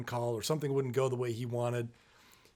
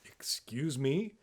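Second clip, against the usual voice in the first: indignant dad; much slower than usual. Retold or imitated. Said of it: "And the dad says".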